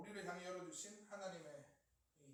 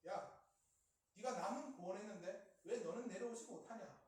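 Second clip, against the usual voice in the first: jeering challenge, building louder and higher; mocking taunt; 3 semitones higher, 7 dB louder than usual. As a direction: taunt him, pushing harder with each dare. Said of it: "예수님을 조롱하는 것입니다". (점점 커지는 조롱조)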